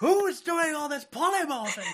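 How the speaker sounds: high, loud words through laughter; laughing. Real, not acted. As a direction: laugh while asking. Table cracks up.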